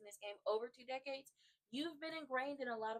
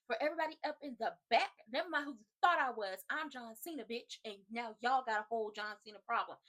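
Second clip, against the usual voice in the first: raised, punchy mock wrestler promo; boastful promo; 6 dB louder than usual. Fan retelling a wrestler's promo to the back, boastful and raised. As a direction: call it out like a cocky wrestler.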